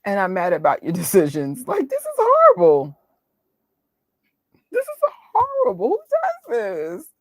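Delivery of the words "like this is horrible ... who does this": high, tearful half-wail; teary, much higher lament; nearly crying. Real, not acted. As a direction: fight back tears while protesting. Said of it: "I'm trying not to cry".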